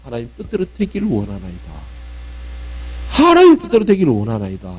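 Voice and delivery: "하나님 뜻대로 되기를 원하나이다" said low and soft; right prayer. Shown as a demonstration. Preacher shows the right prayer, low and soft. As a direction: surrender quietly, low and soft. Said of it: "이게 아니고".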